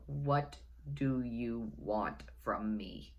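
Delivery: slow, sleepy mumble into the phone; half asleep, dragging every word out; groggy. Retold or imitated. Groggy sleeper answering the drunk caller's phone call.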